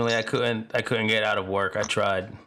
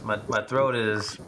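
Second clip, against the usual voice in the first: choking up; 3 semitones lower than usual. Real, not acted. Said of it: "I'm choking up a little bit".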